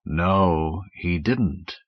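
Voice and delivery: low, slow alien voice; thick slow rumble. Acted. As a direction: rumble it slowly. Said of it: "thick, slow Martian voice".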